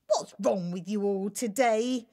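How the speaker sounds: loud, annoyed royal shout. Acted. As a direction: shout it at the servants. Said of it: "he shouted".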